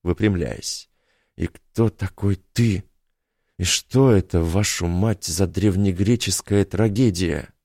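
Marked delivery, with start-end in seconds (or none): 1.4-7.5 hoarse and slow, roughened voice. Acted. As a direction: rasp the question out hoarsely. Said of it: "спросил Йорк хрипло".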